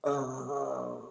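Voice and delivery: long drawn-out groan; sustained, subdued moan of pain, acted out; re-enacted groan of pain. Showing listeners his pain after swallowing, drawn-out groan. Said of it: "saya langsung gini".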